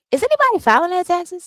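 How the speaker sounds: loud call-out question. Real, not acted. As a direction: call it out to the audience. Calling out question to viewers.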